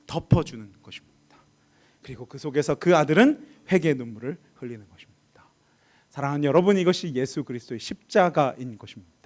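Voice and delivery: slow, hushed sermon delivery; solemn preaching. Real, not acted. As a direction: let each phrase settle with long pauses. Preacher lowers voice for solemn climax.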